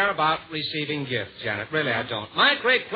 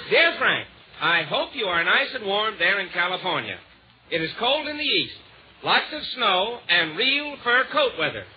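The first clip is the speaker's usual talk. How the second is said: letter read-out. Acted. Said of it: "I'll read you the letter".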